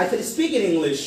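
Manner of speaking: slow "I can speak in English", easing down on "English"; high-to-low tune. Shown as a demonstration. Teacher drilling a statement, slow falling "English". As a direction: start up, let "English" come down. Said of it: "সাউন্ডটা চড়া থেকে একটু নেমে যাবে".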